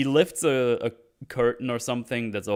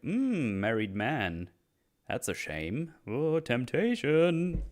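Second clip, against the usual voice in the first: mock-flirty drawn-out swoops in pitch; 4 semitones higher, much slower than usual. Palm reader teasing a married man, mock-flirty. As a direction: tease it, stretching the last word high. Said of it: "It's a bit flirty".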